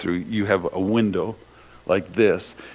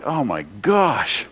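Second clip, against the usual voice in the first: laughing disbelief; 4 dB quieter, much slower than usual. Retold or imitated. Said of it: "it's like".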